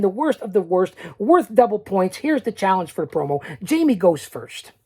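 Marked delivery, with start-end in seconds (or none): 0.0-0.9 worst punched again; repeated stress on worst. Real, not acted. Host repeating the challenge name for viewers, stressed. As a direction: hit worst both times. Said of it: "I'll say it again".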